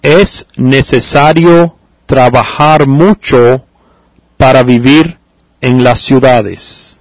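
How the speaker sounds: slowly, word by word, for writing down; slow dictation. Shown as a demonstration. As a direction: read it out slowly so students can copy. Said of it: "let me repeat it slowly so you can write it down".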